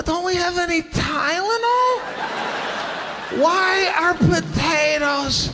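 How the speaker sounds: put-on whiny kid protest. Sick boy complaining to his mother, mock whiny shout. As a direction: protest like a sick child with potatoes on his head.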